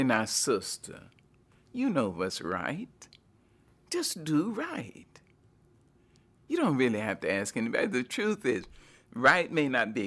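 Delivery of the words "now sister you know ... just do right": lightly voiced slow grandmother; a hint of an old grandmother, slow; grandmother's voice. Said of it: "I can almost hear her voice say".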